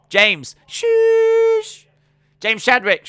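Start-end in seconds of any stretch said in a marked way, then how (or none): 0.7-1.9 high, loud, drawn-out shush at the crowd. Acted. Streamer shushing a rowdy crowd, loud high shush. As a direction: shush them down hard. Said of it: "I just shooshed everyone".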